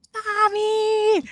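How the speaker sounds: high, drawn-out cry without full volume; re-enacted shout. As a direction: call out for mother, held back. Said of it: "I shouted".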